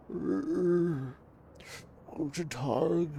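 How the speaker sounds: lightly voiced old German man; German accent. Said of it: "heavily accented with German tonality".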